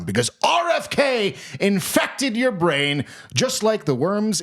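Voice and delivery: emphatic announcer rant with big swoops; hammed-up sponsor tirade; mock ad read. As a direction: scold the listener like an outraged pitchman. Mock sponsor read, second take.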